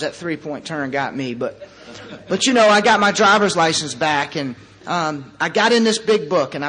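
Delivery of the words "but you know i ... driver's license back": laughing. Real, not acted. Laughing over getting license back.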